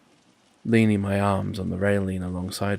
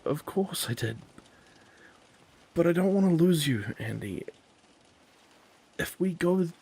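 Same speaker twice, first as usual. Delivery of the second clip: higher, quick and flustered; anxious pleading; 8 semitones higher than usual. Acted. Joel pleads with Andy, high and flustered. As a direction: beg her to understand.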